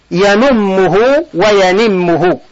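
ينمه with u then ينمه with i, slowly; two vowel forms. Shown as a demonstration. Teacher showing students both present forms of نم, slowly. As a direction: slowly contrast the damma in ينمه against the kasra in ينمه. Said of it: "تقول".

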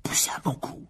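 acted puffing, nearly voiceless; breathy heave of effort; out of breath. A narrator's reading. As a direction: push the words out on spent breath. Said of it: "dit Fred tout essoufflé".

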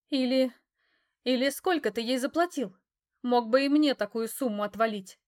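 loud, high, near-hysterical; hysterical demand. A narrator's reading. Hysterical mistress demanding money from her ex. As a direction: shriek the money demand, out of control. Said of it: "неконтролируемая истерика".

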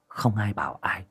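ordinary delivery

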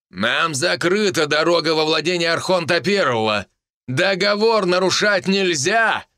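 громко, перекрикивая спор; крикнуть поверх шума споров; loud shout. Acted. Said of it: "Громко, чтобы перекричать". (громкий властный крик)

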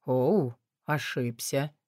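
low, slow, amused man; low smirking male voice. A narrator's reading. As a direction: shrug it off with a smirk. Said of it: "с усмешкой ответил мужчина".

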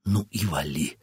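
low, soft bitter dismissal. Acted. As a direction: let him go with bitterness. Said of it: "ответила она, с горечью".

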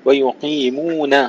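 "ويقيمون" slowly, with a thin, light final na; light nun. Shown as a demonstration. Teacher modelling for a reciter, "ويقيمون" with light nun. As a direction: keep the ن of "ويقيمون" light, not heavy. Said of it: "رقق النون".

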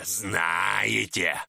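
знаете roared out in a growling shout; growled shout. Acted. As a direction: bellow знаете at them. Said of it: "прорычал Чернолицый".

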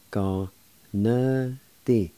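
"Go na di." in separate held syllables. Shown as a demonstration. Teacher showing learners the second part "Go na di.", syllable by syllable. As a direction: sound out "Go na di." piece by piece. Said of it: "Second part".

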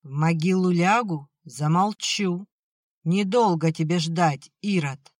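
loud, bitter cry at her husband; bitter shout. Acted. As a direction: hurl it at him in despair. Mother shouts at drunk husband.

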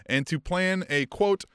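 reading headline news. Acted. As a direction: straight news report delivery. Reads out news item.

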